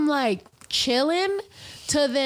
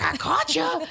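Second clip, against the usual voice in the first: high, squealed mock taunt; imitated drunken squeal; 12 semitones higher than usual. Retelling own blackout antics to friends, high drunken squeal.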